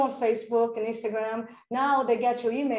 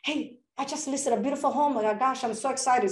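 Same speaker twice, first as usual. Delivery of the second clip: shared excitement. Retold or imitated. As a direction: gush about the new listing. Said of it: "I just share the excitement".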